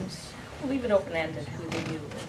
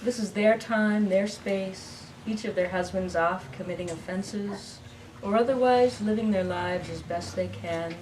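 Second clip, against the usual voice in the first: measured narrative verse with line pauses; poem reading. Acted. Poet reading What Then Is Love, measured recital. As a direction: read it as a poem to a live audience. Reads her poem aloud.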